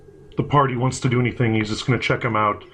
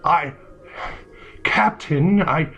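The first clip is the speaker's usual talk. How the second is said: higher, stammering flustered soldier; nervous soldier; 6 semitones higher than usual. Acted. Nervous soldier stammering to his captain, higher flustered voice. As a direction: fumble the words, scared of the captain. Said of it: "I'm doing a role play".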